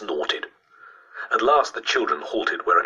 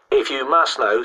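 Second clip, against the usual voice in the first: put-on higher-pitched, dignified boy; with dignity; 7 semitones higher, 4 dB louder than usual. A narrator's reading. Boy defending his ghost story to a doubter, dignified. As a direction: answer with wounded schoolboy dignity. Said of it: "said Christopher with dignity".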